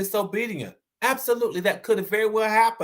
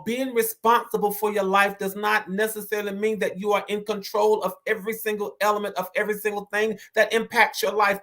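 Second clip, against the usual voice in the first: rushed through in one breath; hurrying the point out; said fast. Shown as a demonstration. Host rushing the point to chat, said fast. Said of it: "I recognize that I said it fast".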